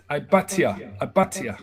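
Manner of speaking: "I but ya" joined up as eye-BAHT-yah; Hebrew pronunciation demo. Shown as a demonstration. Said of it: "This is ya".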